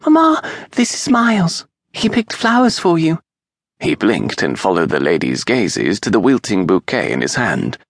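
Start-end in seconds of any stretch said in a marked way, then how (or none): 0.0-3.2 put-on high, eager child's voice; piping little girl. A narrator's reading. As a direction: pipe up like an excited small girl. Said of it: "the little girl piped in".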